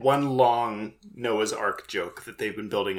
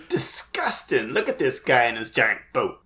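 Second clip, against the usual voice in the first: disgusted sneer. Retold or imitated. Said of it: "He says it like it's a perverse act".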